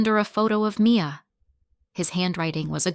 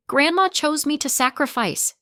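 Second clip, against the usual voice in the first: higher, a mild wail; a touch of a wail, higher; 8 semitones higher than usual. A narrator's reading. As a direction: cry it out over the sobs. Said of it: "she wails".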